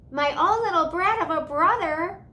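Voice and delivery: loud shocked cry, pitched high; a sister's shocked outburst; cried out. A narrator's reading. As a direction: blurt it out in dismay. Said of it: "she cried".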